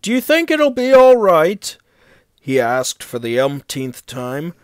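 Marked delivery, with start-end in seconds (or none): 0.0-1.8 high, eager question; excited and eager for reassurance; excited asking. A narrator's reading. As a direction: ask it keyed up, voice pitched well up. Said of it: "Henry was excited".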